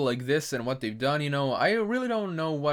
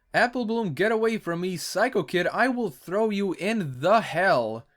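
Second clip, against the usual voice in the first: high scared cartoon voice; 4 semitones higher than usual. Reading comic dialogue aloud.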